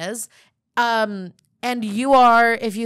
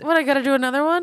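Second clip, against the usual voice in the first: mock whiny complaint; 6 semitones higher, 5 dB louder, much faster than usual.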